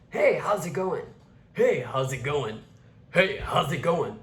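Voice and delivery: gruff greeting easing toward natural speech; rough-edged, masculinized greeting; harsh onset. Shown as a demonstration. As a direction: start the greeting with a pushed attack. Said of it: "that's what you wanna start with".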